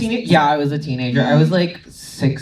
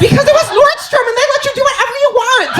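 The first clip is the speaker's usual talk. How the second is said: much higher, excited, laughing; excited outburst. Real, not acted. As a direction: blurt it out, thrilled and amused. Excited answer about store dogs.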